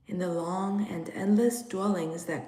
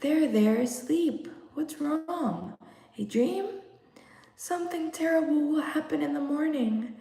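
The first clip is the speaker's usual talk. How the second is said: soothing; 7 semitones higher than usual. Acted. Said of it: "They had to be soothed".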